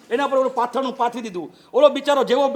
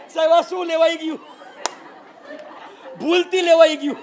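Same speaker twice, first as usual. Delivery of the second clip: mock whining; 6 semitones higher than usual. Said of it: "બાપડો ... રડે".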